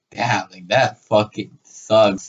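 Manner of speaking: low, slow retold sympathy; deadpan dismay. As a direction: sink low and draw it out. Retelling his sympathy for the girl.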